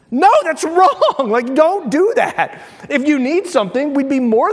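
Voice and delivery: slow, laughing no; that's wrong, said through a laugh; laughing disbelief. Real, not acted. Laughing at the story.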